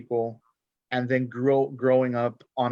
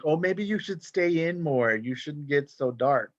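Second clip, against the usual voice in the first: lightly imitated family; 3 semitones higher than usual. Family commenting on skin colour, lightly imitated nagging. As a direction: lightly voice a relative giving unwanted advice. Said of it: "my family's like".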